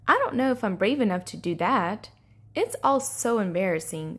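mildly glum, sinking at the end; miserable. Acted. Rainbow Fish dreading the apology, mildly miserable. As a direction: admit it with understated misery. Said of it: "said Rainbow Fish miserably".

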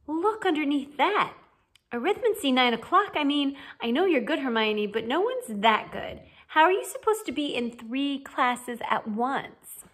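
acted exasperated bafflement, stretching key words; incredulous. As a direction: question it as plainly impossible. Incredulous friend questions impossible schedule.

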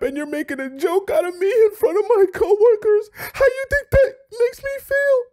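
mock a partner dredging up an old grudge; imitating ranting boyfriend. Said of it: "he starts talking to you about this story".

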